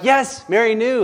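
exasperated insistence, high and loud on "Mary"; emphatic. Acted. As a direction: land hard on "Mary knew". Emphatic rebuttal to the song.

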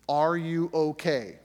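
slow, loud and tight; slow, loud, tense question to a missing wife; tense demand. Retold or imitated. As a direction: press each word out, scared and stern. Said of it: "she can hear the tension".

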